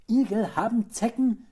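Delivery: high, very loud warning; alarmed call. A narrator's reading. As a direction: cry it out as an alarmed mother. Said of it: "rief die Frau".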